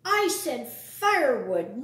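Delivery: loud, slow scolding; gruff rebuke. Acted. Vermin scolding Buddy over wrong wood, loud and slow. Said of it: "Roughly, the vermin grabbed".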